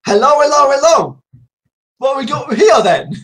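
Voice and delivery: lightly played policeman catchphrase; mock policeman.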